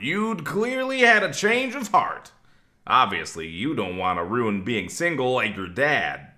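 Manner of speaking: dramatic reading. Shown as a demonstration.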